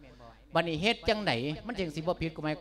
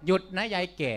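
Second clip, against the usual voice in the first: a higher, louder bark of a movie bandit; a hint of a tough movie bandit, higher and louder; 4 semitones higher, 4 dB louder than usual. Shown as a demonstration. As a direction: stop the old woman like a film robber. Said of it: "ปลอมเสียงให้ข้อยฟังเบิ่ง".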